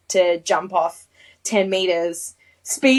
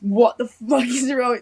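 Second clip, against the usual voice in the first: mock telling-off, a bit raised; retold yelling; 4 dB louder than usual. Instructor grabs her by the shoulders, half-voiced yelling. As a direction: imitate an instructor yelling, only partly acted. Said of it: "he's just yelling at me".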